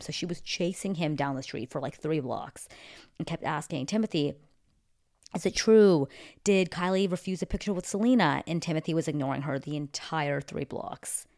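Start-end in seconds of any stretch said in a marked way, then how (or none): 3.9-8.4 louder, pushy shouted questions; paparazzo calling out. Retold or imitated. Paparazzo chasing Timothy down the street, calling out loudly. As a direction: call after him as you chase him.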